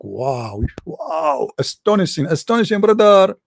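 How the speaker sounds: mocking awe. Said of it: "and the Muslim like".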